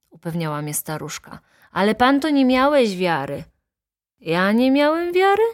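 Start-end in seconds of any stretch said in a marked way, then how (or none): 1.7-3.4 higher, louder accusation; raised, insistent voice; teasing reproach. A narrator's reading. Old woman reproaches her companion. 4.2-5.4 high, loud rising question; indignant, climbing pitch; incredulous protest. A narrator's reading. Narrator indignantly denies doubting.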